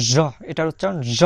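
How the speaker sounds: "জ" as a buzzing zh sound; sound demonstration. Shown as a demonstration. Teacher showing learners the letter's sound, a demonstrated zh. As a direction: say "জ" like the s in measure, held apart. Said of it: "এটার উচ্চারণ কিন্তু বারবারই আমি আপনাদেরকে বলছি".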